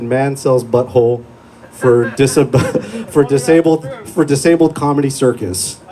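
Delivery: slow, deadpan headline read breaking into a laugh; mock headline. Comic reading a fake news headline, slow and deadpan. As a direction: read it like a tabloid banner, cracking up. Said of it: "Headline would have read".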